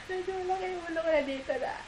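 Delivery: talking through a laugh. Real, not acted. Vlogger laughing at her own big head, talking fast.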